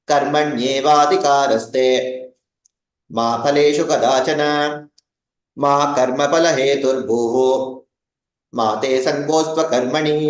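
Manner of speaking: verse read phrase by phrase with pauses; recited in phrases. Shown as a demonstration. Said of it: "make a note of how I'm reading it".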